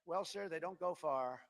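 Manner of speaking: slow, hesitant imitation of the adviser; lightly mock a meek aide; timid adviser. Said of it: "And the guy goes".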